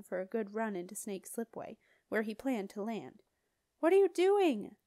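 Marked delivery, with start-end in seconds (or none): 3.8-4.8 loud, high yell over the wind. A narrator's reading. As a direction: yell it as a startled demand. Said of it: "yelled Jenna".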